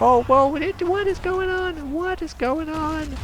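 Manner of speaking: very high-pitched, drawn-out disbelief; astonished. Real, not acted. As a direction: squeal in slow bewilderment. Astonished at sudden game chaos.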